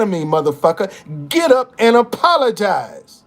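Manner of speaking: furious speaker ordering the man to apologize to the mayor; angry demand. Retold or imitated. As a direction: stand up and order him to apologize right now.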